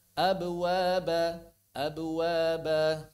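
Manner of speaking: very slow abwaba in one flow; drawn-out abwaba with no break; correct joined echo. Shown as a demonstration. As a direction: model abwaba, b bouncing straight into w. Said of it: "Begitu, ya".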